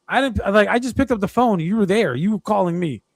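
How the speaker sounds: high, exasperated protest; indignant protest. Retold or imitated. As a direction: insist you never called him. Arguing with caller.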